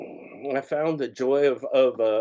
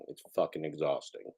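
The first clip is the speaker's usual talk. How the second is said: weary complaint; 8 semitones lower, 11 dB quieter than usual. Real, not acted. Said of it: "It's exhausting".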